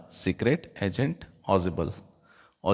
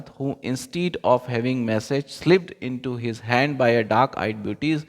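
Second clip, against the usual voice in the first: slow reading aloud; much slower than usual. Acted. Reads English passage slowly.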